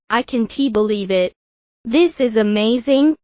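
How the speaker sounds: lightly excited, rising on "amazing"; a touch of delight, lifting at the end; mild excitement. Shown as a demonstration.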